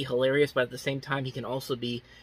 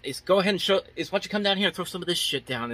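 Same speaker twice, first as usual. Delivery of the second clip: a higher, cocky mock jeer; snarky; 6 semitones higher, faster than usual. Chief mocking Quinn's chum-throwing, snarky and higher. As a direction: toss it off like a smart-aleck. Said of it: "he's snarky at first".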